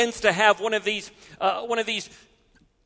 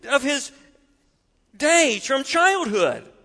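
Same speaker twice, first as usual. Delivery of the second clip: higher, pleading father; a father's desperate plea, pitched up; 5 semitones higher than usual. Acted. Father desperately telling Jesus about his son, pleading. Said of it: "in utter desperation says".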